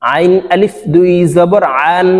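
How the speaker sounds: আইন from the middle of the throat, a squeezed voiced pharyngeal; throaty Arabic ain. Shown as a demonstration. Teacher demonstrates আইন from mid-throat for viewers. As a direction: tighten mid-throat for আইন, then read আন. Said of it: "আইন হলকের মধ্যখান থেকে উচ্চারণ করতে হবে".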